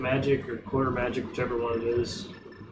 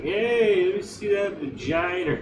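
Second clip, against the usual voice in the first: put-on Australian accent; 6 semitones higher, slower than usual. Joking about how Australians would ask, in a hammed-up Australian accent. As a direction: play a cheeky Aussie bloke. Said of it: "if they were Australian".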